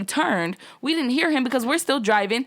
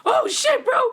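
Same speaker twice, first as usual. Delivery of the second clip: retold alarm; 14 semitones higher, slower than usual. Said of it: "And Kayla was like".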